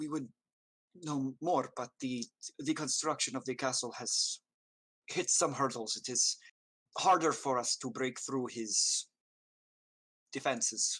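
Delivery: hushed, confiding voice. A woman handing the player a dossier, in a hushed voice. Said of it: "in a hushed voice".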